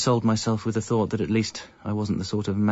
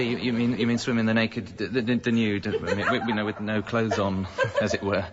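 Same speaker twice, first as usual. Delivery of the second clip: embarrassed laugh. Acted. Realising naked swim, embarrassed.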